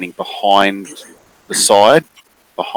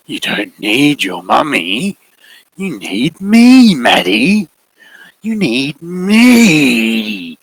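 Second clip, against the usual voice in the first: slow, rising insistence, louder at the end; growing intensity; 6 semitones higher, 4 dB louder, much slower than usual. Acted. Figure demanding the girl need him, building intensity. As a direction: press harder with each line. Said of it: "voice is starting to sort of grow in intensity".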